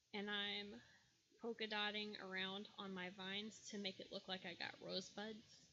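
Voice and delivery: rough, worn-out voice; hoarse and strained throughout. Real, not acted. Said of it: "I sound so horrible".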